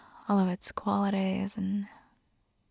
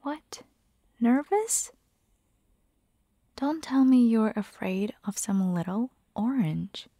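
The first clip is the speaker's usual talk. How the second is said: teasing. Acted. Roommate coaxing a vampire to eat fruit, teasing.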